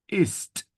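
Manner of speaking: "Ist" high, with a crisp released t; final consonant sounded. Shown as a demonstration. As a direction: finish "Ist" on a clear, separate T. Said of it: "this consonant at the end".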